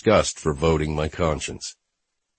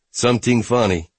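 put-on Jamaican accent; 5 semitones higher than usual. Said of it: "he asked in a Jamaican accent".

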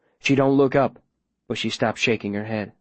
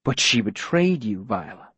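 fake surprise. Mayor needling Viola about betrayal, mild fake surprise. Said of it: "making his voice do that fake surprised thing".

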